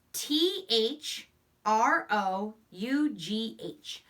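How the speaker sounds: letters spaced slowly and evenly; slow spelling out. Shown as a demonstration. Teacher spelling a sight word aloud slowly.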